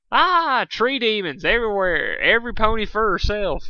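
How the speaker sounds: high, loud panicked cry; panicked scream. Acted. Fluttershy shrieking about the tree demons in terror.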